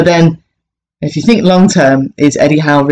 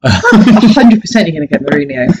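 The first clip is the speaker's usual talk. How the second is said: amused certainty. Real, not acted. Joking certainty about next manager.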